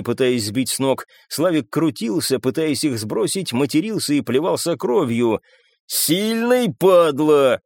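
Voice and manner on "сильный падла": grudging growl mid-struggle. A narrator's reading. Волошин hanging on Славик's back, growling. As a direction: growl through the strain, starting high. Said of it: "рычал Волошин".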